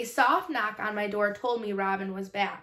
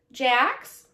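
slurry voice; 3 semitones higher, 5 dB louder than usual. Acted. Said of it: "said Robin in a slurry voice".

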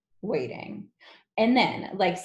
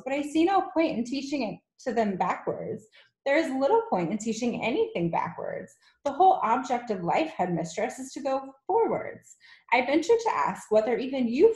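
higher, earnest teacher voice; courteous indignation, pitched up; protesting young teacher; 5 semitones higher than usual. Acted. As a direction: argue politely but firmly with a superior. Miss Honey argues back.

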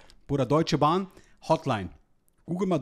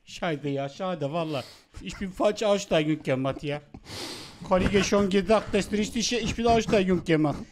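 put-on Vietnamese accent in German. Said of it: "Hotel muss man als Vietnamese anrufen".

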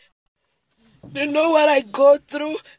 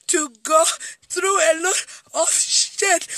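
crying. Real, not acted. Telling her viewers about her hurt, sobbing. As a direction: voice breaking into real sobs mid-sentence. Woman breaks down on camera.

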